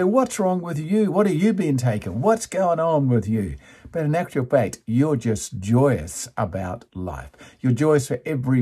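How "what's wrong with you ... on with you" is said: higher-pitched mock questioning; lightly voiced critics, pitched up; imitated naysayers. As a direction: run the questions together as the disapproving critics. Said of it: "And they say".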